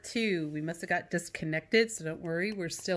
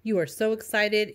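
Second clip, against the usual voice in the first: excited. Shown as a demonstration. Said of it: "Or is it an excitement".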